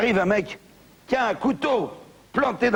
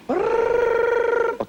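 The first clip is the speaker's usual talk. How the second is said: startled oh; 13 semitones higher than usual. Acted. Banker startled by phone ringing.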